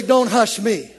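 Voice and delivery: loud, firm declaration; congregation declares. Real, not acted. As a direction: tell your neighbor straight. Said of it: "Look at somebody and say".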